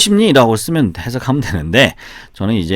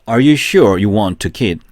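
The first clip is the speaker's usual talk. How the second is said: very slow, each word spaced for repeating; deliberate slow model sentence, question lifted at the end; slow drill reading; much slower than usual. Shown as a demonstration. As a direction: read it slowly so students can follow. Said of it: "한 번 더, 시작".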